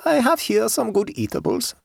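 high, tranquil peasant woman; unruffled German-accented countrywoman. A narrator's reading. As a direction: say it placidly in a high voice. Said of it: "said the woman tranquilly".

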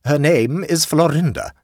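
aunt complaining to the hostess, indignant; stern aunt. A narrator's reading. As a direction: lay down the law like an affronted aunt. Aunt voiced.

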